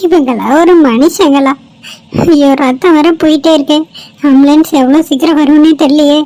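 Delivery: loud, worried outburst; anxious exclaiming. Acted. Girl alone with bleeding stranger awaiting ambulance, anxious.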